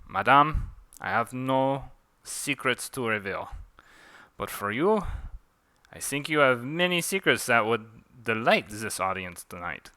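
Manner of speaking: put-on light theatrical French accent; mild put-on French accent. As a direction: needle your opponent in a mock-French accent. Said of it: "Forgive my French accent".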